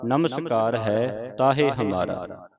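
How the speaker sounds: slow, measured verse recitation; scripture recitation. Shown as a demonstration. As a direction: recite the verse slowly, drawing out line endings. (ਹੌਲੀ-ਹੌਲੀ ਪਾਠ ਉਚਾਰਨ)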